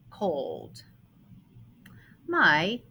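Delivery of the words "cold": the word Cold said softly and lower. Shown as a demonstration. Teacher softly repeating the word for pupils, quiet.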